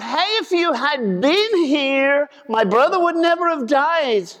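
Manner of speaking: a hint of a sister scolding through grief; lightly voiced Martha, hurt and accusing; reproachful Martha. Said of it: "Martha goes running out".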